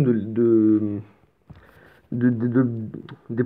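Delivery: real stumbling stutter, stuck on "de". Real, not acted. Player explaining what the bubble gives, stuttering on the word. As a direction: trip over "de" several times before getting it out. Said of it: "Putain, j'ai bégayé".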